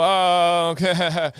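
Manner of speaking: high mock reply. Young boy teasing his sister, high mock shrug. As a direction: brush her off in a silly voice.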